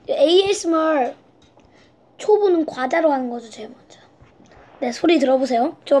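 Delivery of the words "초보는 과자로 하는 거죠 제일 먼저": unvoiced ASMR whisper. Shown as a demonstration. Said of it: "조그맣게 하는 거지".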